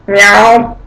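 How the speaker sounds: a low, stiff German-accented meow; German cat meow. Shown as a demonstration. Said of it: "German cats".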